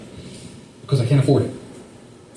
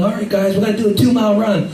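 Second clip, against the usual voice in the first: higher, announcing drill leader voice; 5 semitones higher than usual. Retold or imitated. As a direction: address the troops like a sergeant. Military leader announcing run.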